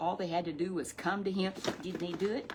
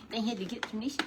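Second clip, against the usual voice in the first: lightly higher, fast puppet voice; 3 semitones higher, faster than usual. Acted. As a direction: puppet repeats the point.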